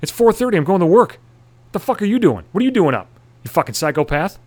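high, exasperated comeback; indignant retort. Retold or imitated. Going to work, answering the screaming neighbour, indignant high retort. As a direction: snap back in mock outrage.

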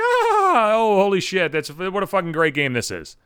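sudden squeal, then sarcastic gushing; squeaky mock excitement trailing off; mock thrill. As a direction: ham up a delighted Twister fan. Mocking a thrilled Twister player.

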